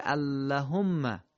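اللهم read as spelled, short a after the lam; اللهم kept short, no lengthening; as written. Shown as a demonstration. Teacher reading the written form slowly. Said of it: "نوشته".

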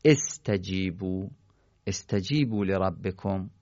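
slow first استجیبو opening on "e", then the phrase; kasra on alef. Shown as a demonstration. Teacher demonstrating the correct reading, استجیبو said "estajibu". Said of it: "الف وصل رو باید مکسور بخونیم".

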